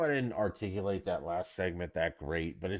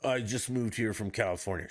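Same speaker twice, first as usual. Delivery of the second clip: mock fan voice; 3 semitones higher than usual. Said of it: "You keep going".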